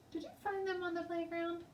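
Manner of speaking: high, fast, suspicious teacher. A narrator's reading. Teacher questioning the girl about the tickets, stern. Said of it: "she asked".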